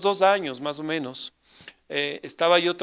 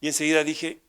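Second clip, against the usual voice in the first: ordinary talk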